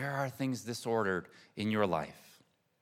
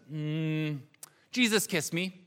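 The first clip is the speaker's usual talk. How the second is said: put-on higher, a toddler's sweet answer; little son's voice; 4 semitones higher, slower than usual. Mother quoting her toddler son at prayer, child voice. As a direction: play the three-year-old, musing then declaring.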